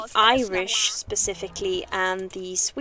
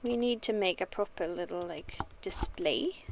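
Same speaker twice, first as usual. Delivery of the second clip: whisper; 8 dB quieter than usual. Real, not acted. Whispering while arranging items.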